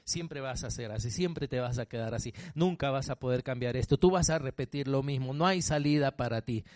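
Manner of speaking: a hint of a low, quiet tempting devil; lightly voiced devil murmuring low; devil's voice. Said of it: "esa voz del diablo que te habla así". (voz del diablo, grave y baja)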